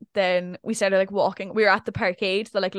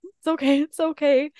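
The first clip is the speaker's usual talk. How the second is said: concierge soothing; 7 semitones higher, 3 dB louder than usual. Retold or imitated. Concierge soothing her in lift.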